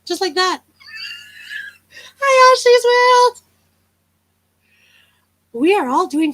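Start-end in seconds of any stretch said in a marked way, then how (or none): 2.2-3.4 high, slow show-host greeting; mock sunny host welcome; impression of Charlie Grace. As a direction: sing out the greeting as someone else. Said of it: "I'm really bad at impressions".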